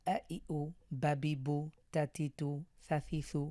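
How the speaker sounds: harakat vowels said short, no lengthening; short unstretched vowels. Shown as a demonstration. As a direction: cut each short vowel off without stretching. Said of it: "টান ছাড়া দ্রুত পড়তে হয়".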